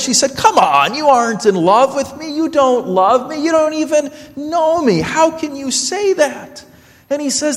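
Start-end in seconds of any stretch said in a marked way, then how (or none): 0.4-6.6 exasperated brush-off, climbing higher; annoyed. Retold or imitated. Girl brushes off the young man's confession, annoyed and rising. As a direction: dismiss him with irritation. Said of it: "And annoyed".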